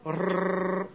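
a rolled ر trill, tongue tip fluttering. Shown as a demonstration. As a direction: let the tongue tip buzz in a long rrrr. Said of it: "نوک زبونتون اینجوری".

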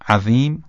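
"عظیم" with thin dhāl, pitch rising; light dhāl take. Shown as a demonstration. Teacher shows the difference, "عظیم" with thin dhāl. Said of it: "تفاوت رو دقت بفرمایید".

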